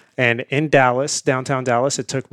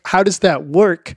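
higher, slower mock-baffled question; retold bafflement; 6 semitones higher, 4 dB louder, slower than usual. Guest recalling his question to a stranger, playfully baffled. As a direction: act out being puzzled and amazed.

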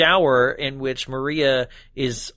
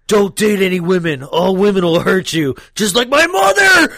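loud, rising shout; hammed-up villain shriek; mock villain rant; 3 semitones higher, 6 dB louder than usual.

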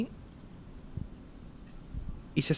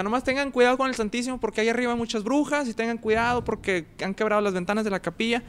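higher, called-out warning from the priest; priest shouting; 9 semitones higher than usual. Retold or imitated. Priest shouting a warning to departing ministers, raised high. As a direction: call it across the yard like a priest. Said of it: "el padre nos grita".

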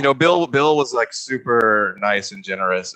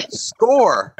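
high, loud one-word yell; yelling back; 11 semitones higher, 7 dB louder than usual. Retold or imitated. Actor re-enacting an answer to a co-star, yelling back. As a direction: shout the answer back across the room. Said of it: "And I yell back".

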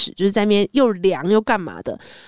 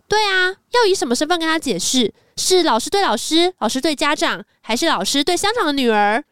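higher, cutting jab with 要 stressed; sharp retort; 5 semitones higher than usual. Retold or imitated. Ponytail teacher cutting in on the principal, sharp higher jab. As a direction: hit 要 hard and cut her down. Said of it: "讲话超犀利".

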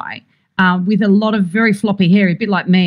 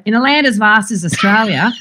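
put-on broad bogan Aussie accent; 2 semitones higher than usual. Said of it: "the producers were like, "Cringe".

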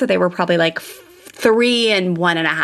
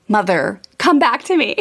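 put-on mildly exasperated child summoning a parent; kids calling mom back; 3 semitones higher than usual. Kids to mom drifting off in Target, calling her back.

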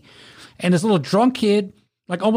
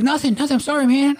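mock apology; 8 semitones higher, faster than usual. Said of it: "He's like".

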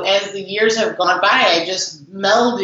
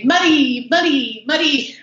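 higher, lightly imitated Italian accent calling the name; 5 semitones higher than usual. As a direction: call the name like an Italian dad, half-hearted Italian accent. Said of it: "in his, like, really broken accent, his Italian accent".

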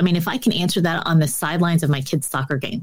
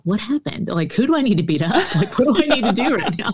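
half-laughing, rising protective mock fury; laughing mock outrage; 5 semitones higher than usual. Mom retelling her reaction to her son's tears, laughing mock outrage. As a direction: play a mama bear, laughing at herself.

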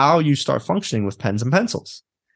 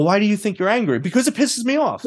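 mock angry client; 9 semitones higher than usual. Acted client answering therapist.

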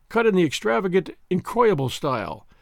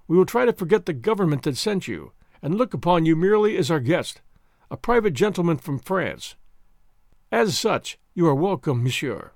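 ordinary delivery

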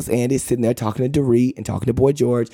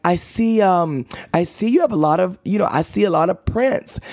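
high, mock English accent; attempted English accent; 6 semitones higher than usual. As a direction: put on a poor English accent. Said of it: "envision an English accent".

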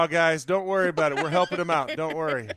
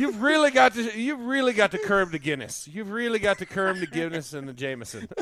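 hammed-up Irish pleading; Irish accent. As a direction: coax him along in a stage Irish accent. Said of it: "that Irish accent".

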